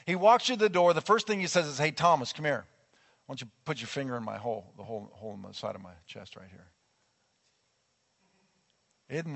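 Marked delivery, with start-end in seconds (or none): 1.8-6.7 soft, kindly call to a friend, fading quieter; gentle invitation. Pretend. Jesus inviting doubting Thomas to touch his wounds, gently. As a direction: invite him in gently, no sarcasm at all. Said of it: "he did not do it with attitude".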